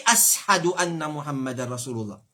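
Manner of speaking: "ashadu" with s in place of sh; sin for shin. Shown as a demonstration. Teacher mimicking someone who confuses shin and sin, mispronounced "ashadu". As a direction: say "ashadu" as as-hadu. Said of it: "qui pas connaît shin".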